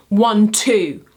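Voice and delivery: iambic count, weight falling on "two"; rising two-beat, unstressed then stressed. Shown as a demonstration. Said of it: "starts on an unstressed syllable and".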